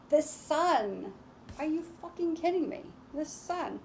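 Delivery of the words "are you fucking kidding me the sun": higher, fast disbelieving squeal; thrilled reader reacting to the Sun card; delighted disbelief. Real, not acted. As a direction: shriek it in happy shock.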